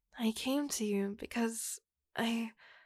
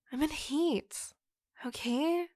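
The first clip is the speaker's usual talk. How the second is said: higher, pushed-out confession; exasperated yell; 4 semitones higher than usual. Acted. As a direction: blurt it at him, fed up. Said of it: "I didn't mean to yell at you".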